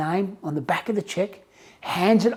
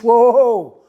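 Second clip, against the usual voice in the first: startled whoa; 4 semitones higher, 6 dB louder than usual. Retold or imitated. Man startled by teller's request.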